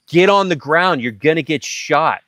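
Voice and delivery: forceful retold warning; urgent command. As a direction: drag them down while you say it. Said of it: "grab 'em and be like".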